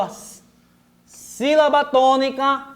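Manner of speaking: ordinary delivery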